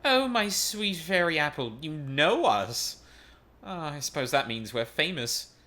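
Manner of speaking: preen like a famous alchemist; hammed-up showy rogue; flamboyant villain.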